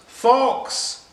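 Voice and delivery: sudden high loud alarm cry; shout. Acted. Rabbit warning the others of the fox, shouting. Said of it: "he shouted".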